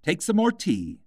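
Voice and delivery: high, earnest offer; mildly earnest hare; earnest March Hare. A narrator's reading. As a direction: press tea on her sincerely. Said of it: "very earnestly".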